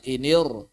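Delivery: "Inir" with a heavy, dark r; thick r. Shown as a demonstration. Teacher shows a false kasrah makes ra thick, heavy r. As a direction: thicken the r closing "Inir", as in "iniur". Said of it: "Maka roknya dibaca tebal".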